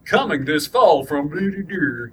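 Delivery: slow movie-trailer announcer voice. Acted. Podcaster imitating a trailer voiceover, announcer style. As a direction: draw it out like a promo voiceover.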